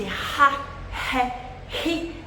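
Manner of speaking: "ra, ré, ri" each with a forced, huffed H; exaggerated H at the start of "ra, ré, ri"; forced H sound. Shown as a demonstration. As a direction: push out "ra, ré, ri" as ha, hé, hi. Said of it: "Eu falei meio forçado agora".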